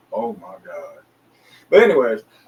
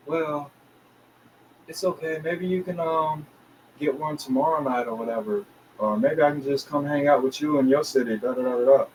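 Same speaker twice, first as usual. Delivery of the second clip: put-on light girl voice; 4 semitones higher than usual. The girl reassuring him on the phone, lightly higher voice.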